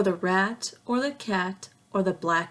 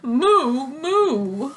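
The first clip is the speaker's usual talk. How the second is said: confused moo; 6 semitones higher, 9 dB louder than usual. Acted. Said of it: "who muttered".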